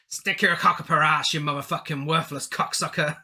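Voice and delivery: put-on accidental Irish-Scottish accent. Podcaster quoting the demon's curse, accidental Irish-Scottish accent. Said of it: "why did you sound like Liam Neeson then".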